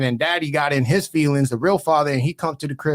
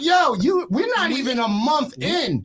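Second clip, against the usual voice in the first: high incredulous yell; exasperated yell; 11 semitones higher than usual. Retold or imitated. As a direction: throw up your hands and yell it. Retold telling off girlfriend.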